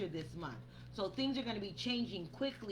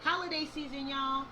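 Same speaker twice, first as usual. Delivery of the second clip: raised voice; 3 semitones higher, 4 dB louder than usual. Real, not acted. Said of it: "I feel like I'm screaming at y'all".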